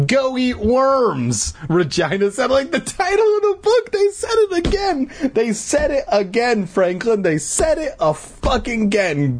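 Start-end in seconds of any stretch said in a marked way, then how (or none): 0.1-1.5 high, drawn-out taunt. A narrator's reading. Regina dismissing the boys, high slow taunt. 2.5-9.4 very high squealed excitement; mock-excited outburst. Real, not acted. Reader telling Franklin of the title drop, excited squeal.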